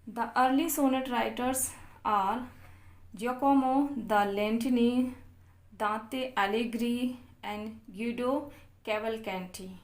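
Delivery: reading notes aloud very slowly, word by word; slow dictation reading. Acted. Teacher dictating English notes to students, very slow and deliberate.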